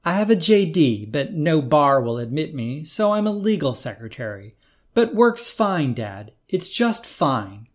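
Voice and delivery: bitter, holding back anger, slowing to a drag at the end; a touch of resentful anger under the words; lightly angry daughter. Acted. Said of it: "She was angry again".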